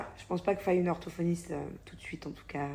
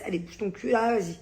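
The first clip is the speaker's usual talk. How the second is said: telling her son off, louder on the end; mock scolding; 3 semitones higher, 5 dB louder than usual. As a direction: push him along with a raised voice. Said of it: "quand il me stresse".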